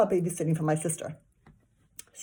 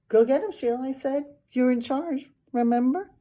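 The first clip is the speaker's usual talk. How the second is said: calling out; 7 semitones higher, 7 dB louder than usual. A narrator's reading. Boy calling to Sheila.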